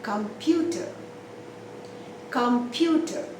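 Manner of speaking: "Computer" with the stress on PU; stress on middle syllable. Shown as a demonstration. Teacher showing where stress goes, "Computer" stressed on PU. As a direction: lean on the middle of com-PU-ter. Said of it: "where do you give the stress".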